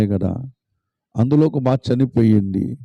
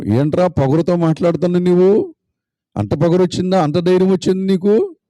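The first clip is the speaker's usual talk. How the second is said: angry sister; 7 semitones higher than usual. Acted. Sister scolding her defiant brother, high and angry. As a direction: scold him for his cheek.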